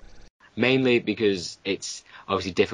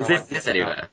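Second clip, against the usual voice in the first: robotic voice; faster than usual. Real, not acted. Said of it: "you're still kinda robotic-y".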